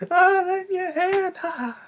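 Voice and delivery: very high, slow villain voice ending in a cackle; cackling Joker. Retold or imitated. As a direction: drag it out like a gleeful madman. Joker's fake hand gag.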